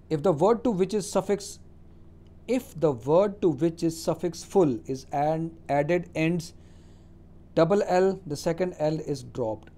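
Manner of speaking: slow, deliberate dictation of the rule; reading a rule aloud. Acted. Teacher dictates the English spelling rule to students, slow and deliberate. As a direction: read it out slowly, word by word.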